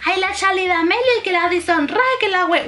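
dismissive. Retold or imitated. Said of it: "yo siempre digo".

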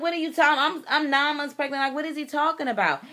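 high-pitched, flustered protest; indignant bewilderment. Retold or imitated. Pregnant wife denying accusation to the preacher, indignant bewilderment. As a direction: protest high in baffled disbelief.

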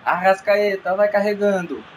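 fast radio football commentary; live play-by-play. Acted. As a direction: call the passes live. Play-by-play narration.

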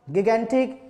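गिगेंटिक with hard g in both syllables; hard-g pronunciation. Shown as a demonstration. Teacher revising the word list, hard-g गिगेंटिक. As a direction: say गिगेंटिक as "gi-gen-tik". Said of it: "या गिगेंटिक".

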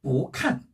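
"보" rising, "칸" falling in fourth tone; weak-strong tones on "보칸"; second tone then fourth. Shown as a demonstration. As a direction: lift "보", then drop "칸". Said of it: "사성이 왔어요".

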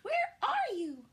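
high, loud scared squeak; squeaky. A narrator's reading. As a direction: call out in a tiny frightened squeak. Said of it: "Stella Luna squeaked".

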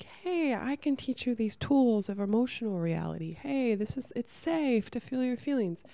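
a hint of a sing-song mom explaining feelings; mock teacher voice. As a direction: coo it like a mom soothing a kid. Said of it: "almost like a mom role or, like, a teacher role".

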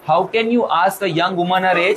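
slow, hammed-up outraged lady; mock offended old lady. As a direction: act scandalised, slowly. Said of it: "देख के बोलती है". (बनावटी नाराज़गी, धीमी बुज़ुर्ग आवाज़)

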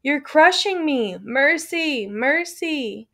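rattling plea. Acted. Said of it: "The same faint voice, the same rattle".

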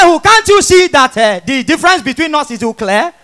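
one hooting block, then the words run free; comic stammerer arguing back; stammering. Acted. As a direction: act out a light stammer at the start. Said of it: "Now the idiot reply am back".

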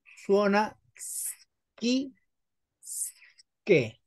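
schi drawn out very slowly with a hard k; slow teaching sk sound; hard sk demo. Shown as a demonstration. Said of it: "la C e la H".

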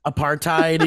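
APARTHEID as "a-PAR-tide"; corrected pronunciation. Shown as a demonstration. Host echoing a friend's correction, APARTHEID as "a-PAR-tide". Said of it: "everybody pronounces it differently".

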